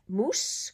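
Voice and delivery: MOUSSE ending on a clear hissed S; S sound. Shown as a demonstration. Teacher giving a double-S example, S sound. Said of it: "an S sound".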